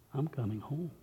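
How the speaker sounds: dropped almost to nothing; a near-silent promise of going home; hushed refrain. Acted. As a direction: let the words fall away softly. Preacher voicing Jesus, refrain dropped low.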